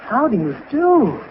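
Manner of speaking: a hint of stiff, courtly formality; Shakespearean. Real, not acted. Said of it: "Gee, he's positively Shakespearean".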